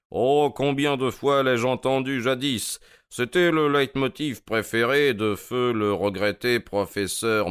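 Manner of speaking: lightly theatrical, self-satisfied detective; Holmes, airily amused. Acted. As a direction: toy with the captive, unhurried.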